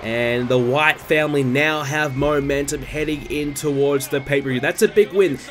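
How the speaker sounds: live ringside play-by-play; wrestling commentator. Acted. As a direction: call the match like a TV announcer. Live play-by-play of game match.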